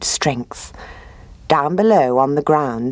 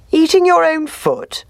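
higher, sly fox voice with a smile; 14 semitones higher than usual. A narrator's reading. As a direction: play the smooth-talking fox. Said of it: "inquired the fox with a smile".

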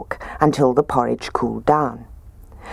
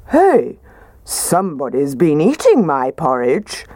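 gruff Daddy Bear. A narrator's reading. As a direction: grumble like a big father bear. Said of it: "said in his gruff voice".

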